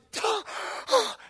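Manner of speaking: sharp high gasp for air, like surfacing; retold gasp. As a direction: gulp air as if just out of the water. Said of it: "and I gasping".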